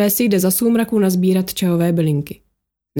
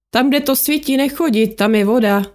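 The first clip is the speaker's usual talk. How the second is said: higher, amused calling out; 5 semitones higher than usual. Acted. Ian calls back to the team in the dark, amused. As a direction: call the warning back with a grin. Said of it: "zvolal pobaveně".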